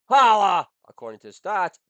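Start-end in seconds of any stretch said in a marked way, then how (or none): 0.1-0.7 loud, high whoop of "Holla"; loud hype-man whoop. Real, not acted. Comic shout-out.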